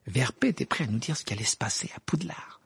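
whispered, sulky grumble; grumbling. A narrator's reading. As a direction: mutter it under your breath, annoyed. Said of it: "grommela-t-il avec mauvaise humeur".

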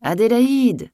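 high, loud roar of a summons; furious cry. A narrator's reading. Master shouting up to the maid in bed, furious cry. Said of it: "Un cri furieux faisait trembler la maison".

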